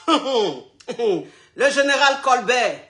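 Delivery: laughing slowly through the name; drawn-out giggly shout-out. Real, not acted. Host laughs while thanking her boss, slow and amused.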